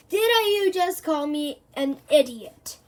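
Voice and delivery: loud, rising outraged question; menacing disbelief, slow; offended. Acted. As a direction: professor confronts the boy, affronted. Professor glaring, offended.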